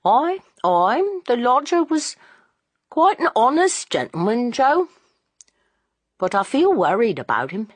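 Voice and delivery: a hint of a sheepish landlord covering up; father owning up to his worry, slightly sheepish; shamefaced old Bunting. A narrator's reading.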